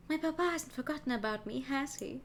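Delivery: a hint of a sweet noble girl, worried; lightly voiced young lady. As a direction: read it as a lightly voiced anxious daughter. Voices Cataline, reading dialogue.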